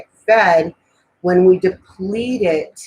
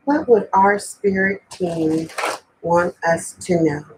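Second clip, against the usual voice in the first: prayer. Acted. Prays over the cards.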